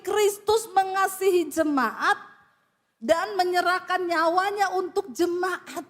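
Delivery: tearful. Real, not acted. Preacher moved quoting verse.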